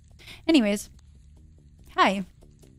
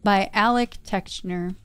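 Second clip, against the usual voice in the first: reading a blurb aloud. Acted. Reading the book cover to viewers, like an ad. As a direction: read it like a cheesy ad.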